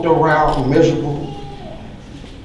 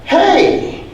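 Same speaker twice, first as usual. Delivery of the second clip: a high calling-out hey; called out; 13 semitones higher than usual. A narrator's reading. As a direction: call it out to the door. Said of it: "the bug called out".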